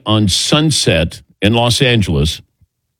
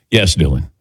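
ordinary talk, nothing marked

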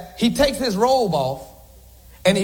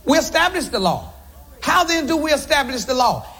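steady, measured reading of the passage; scripture reading. Acted. Preacher reads Romans three to the congregation, measured scripture reading. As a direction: read the verses aloud to the church.

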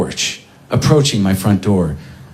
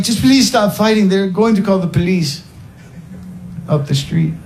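pleading stranger; 12 semitones higher than usual. Retold or imitated. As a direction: beg them gently to stop. Pleading neighbour voiced.

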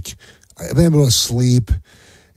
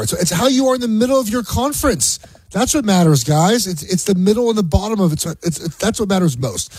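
higher, mocking whine of a complaining rival fan; mock whiny SEC fan; 7 semitones higher than usual. Sports host mocks rival conference complaints, higher mocking whine. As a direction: parody the SEC crowd's sob story, higher.

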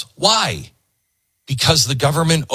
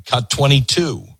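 ordinary delivery

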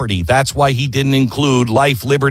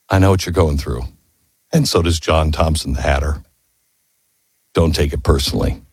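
low-pitched, understated reassurance; gentle comfort; 9 semitones lower than usual. Retold or imitated. Franklin comforts the wounded young writer, low and reassuring. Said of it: "the wisest comfort an old man ever gave".

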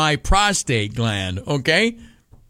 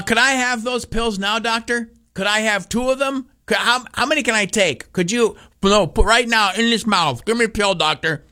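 higher, eager pleading to the doctor; mock begging; 7 semitones higher than usual. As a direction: beg like a kid for candy.

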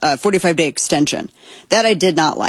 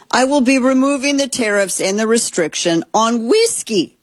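measured, higher-pitched quote reading; quoted post read out, higher than chat; reading aloud; 4 semitones higher than usual. Acted. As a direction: read out an official statement with deliberate phrasing. Reads the president's post aloud.

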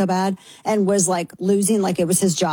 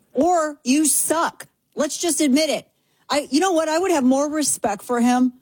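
mock dude voice; 7 semitones higher than usual. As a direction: keep up the mock dude talk. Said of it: "Gonna have to talk like this".

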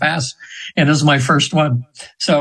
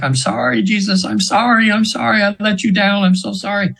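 higher, mildly pleading mock cry; retold pleading apology; 5 semitones higher than usual. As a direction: echo her desperate apology, understated. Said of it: "she's screaming".

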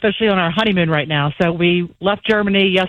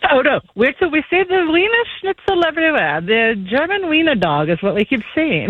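hammed-up, bad German accent; horrible German accent; 7 semitones higher than usual. Honeymooner joking about German wiener dogs, bad German accent. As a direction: put on a clumsy German accent. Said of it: "you do a horrible German accent".

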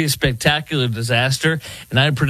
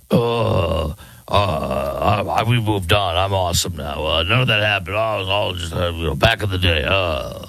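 low, halting, hemming-and-hawing impression; mock a politician brushing it all off in a low voice; lowered voice, stumbling through evasive mumbo-jumbo; Graham Plattner; 6 semitones lower than usual. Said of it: "Here's Graham Plattner".

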